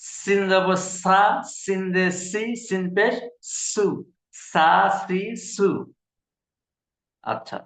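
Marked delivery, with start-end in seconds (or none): 0.0-5.7 সা সি সু said slowly with air hissing between the teeth; hissed sin. Shown as a demonstration. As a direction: push the breath through your teeth on সিন. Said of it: "দাঁতের মাঝখান দিয়ে বাতাস বের হয়ে যাবে".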